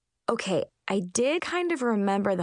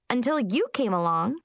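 Munchkin voice; 4 semitones higher than usual. Acted. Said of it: "Chip explained".

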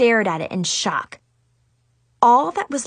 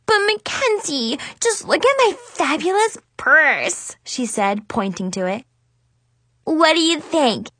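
put-on gushing little girl; slower than usual. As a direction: sell her on the purse. Kid gushing about purse.

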